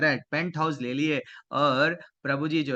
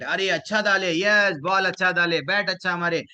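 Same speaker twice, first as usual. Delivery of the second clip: cheering on; 2 semitones higher, 5 dB louder than usual. Acted. Elder cheering on children's cricket.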